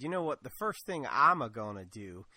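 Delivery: mild put-on Kentucky accent. Governor vowing to scrap Obamacare, light Kentucky accent. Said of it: "and that's my Kentucky accent".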